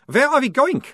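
very high, loud vampire voice. A narrator's reading. Otto asks the sergeant where they go, high vampire voice. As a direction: ask it in the high strange vampire voice.

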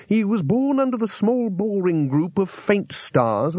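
high, slow scholarly voice; fussy astrologer. Acted. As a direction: lecture it like a fussy old scholar. Astrologer character voice.

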